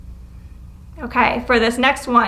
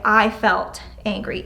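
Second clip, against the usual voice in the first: softer I-statement. Shown as a demonstration. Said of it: "It sounds softer when you say".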